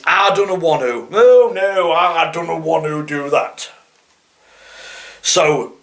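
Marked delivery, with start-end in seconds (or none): 0.0-3.7 put-on East Midlands accent.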